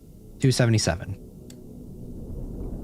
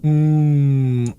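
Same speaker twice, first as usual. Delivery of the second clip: ocean noise; 6 semitones higher, 5 dB louder than usual. Shown as a demonstration. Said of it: "Just making ocean noises".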